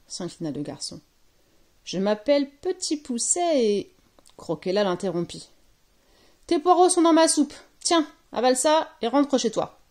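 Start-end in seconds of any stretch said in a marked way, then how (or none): 1.8-3.9 put-on higher, polite little-boy voice; little boy introducing himself. A narrator's reading. 6.5-9.8 loud, high, brusque order; peremptory storybook witch; impatient witch. A narrator's reading. Witch cuts boy off impatiently.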